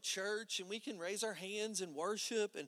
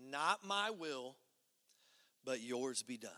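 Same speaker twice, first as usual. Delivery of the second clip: slow emphasis; 5 semitones lower than usual. Real, not acted. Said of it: "repeated quote".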